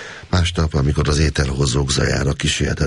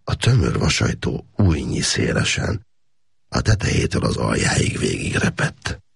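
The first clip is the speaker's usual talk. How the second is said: plain reading voice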